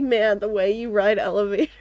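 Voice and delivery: playful flirting; flirty voice. Retold or imitated. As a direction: tease it like a sweet-talker. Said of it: "they're just like".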